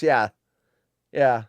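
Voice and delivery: ordinary delivery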